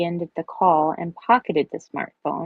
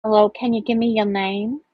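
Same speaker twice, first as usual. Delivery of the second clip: higher-pitched comic phone greeting; raised, jokey greeting with a lilting finish; comedic tone; 5 semitones higher, 3 dB louder than usual. Acted. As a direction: play the question for comedy, rising at the end. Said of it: "said with a comedic tone".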